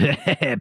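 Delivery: short imitated laugh; imitated chuckle. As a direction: act out someone's brief chuckle. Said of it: "And he goes".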